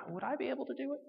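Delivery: high, soft self-questioning; retold moment of doubt; self-doubting wondering. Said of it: "I wondered".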